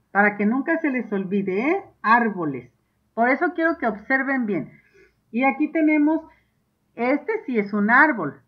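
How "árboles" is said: "Árboles" stressed on its first syllable, lower pitch. Shown as a demonstration. Teacher reminding pupils of the accent, "Árboles" stressed on A. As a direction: land firmly on the A of "Árboles". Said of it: "Árboles lleva acento en la A".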